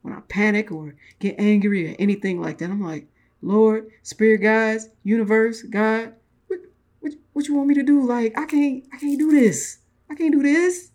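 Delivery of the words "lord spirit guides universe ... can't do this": high, loud panicky wail to the spirit guides; frantic, high-pitched mock plea; panicked plea. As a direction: cry out to the universe in mock panic. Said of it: "In my smoky voice".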